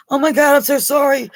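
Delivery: high, mock-embarrassed gushing sorry; squealing a hammed-up apology; flustered apology. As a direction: imitate a caught-out friend apologizing. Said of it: "And she's like".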